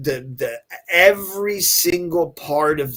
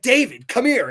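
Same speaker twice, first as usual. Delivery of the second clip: higher and louder, calling out; mock eager call; 9 semitones higher, 4 dB louder than usual. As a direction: pretend to summon the star over. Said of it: "be like".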